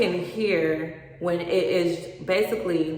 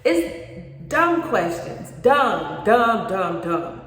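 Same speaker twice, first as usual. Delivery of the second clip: exasperated; 3 semitones higher, 5 dB louder, much slower than usual. Real, not acted. Venting to agents about clueless clients, exasperated. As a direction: pile on the dumbs in disbelief. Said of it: "exasperated repetition".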